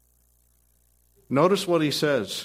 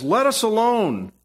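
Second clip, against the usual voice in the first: higher-pitched mock yell of a demon; demon's cry; 5 semitones higher than usual. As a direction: cry it out as the possessed man, half-hearted on volume. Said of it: "he's yelling out".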